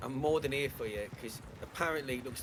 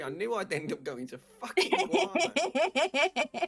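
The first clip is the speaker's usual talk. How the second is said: slow, loud, laughing groan of defeat; a real laughing wail of resignation; laughing despair; 9 semitones higher, 5 dB louder, much slower than usual. Real, not acted. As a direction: drag it out through laughter, half-wailing. Exasperated laughing complaint.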